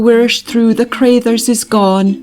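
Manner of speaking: put-on mother lamenting that the children are gone; grieving lament. A narrator's reading. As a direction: let the grief spill out. Mother wails in grief.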